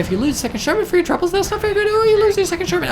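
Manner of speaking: rising to a high, loud, rapid squeal; mounting alarm. Real, not acted. Frantic reaction to losing tank.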